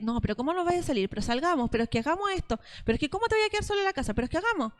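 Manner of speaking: imitating a pushy boyfriend, quick running pleas; insistent coaxing. Preacher mimics the boyfriend wearing her down, insistent coaxing. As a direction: press and wheedle, piling up one plea after another. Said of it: "él la convence hasta que ella dice sí".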